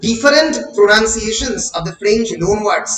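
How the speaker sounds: each word spelled out very slowly for note-taking; slow, deliberate classroom dictation. Acted. Dictating notes to students.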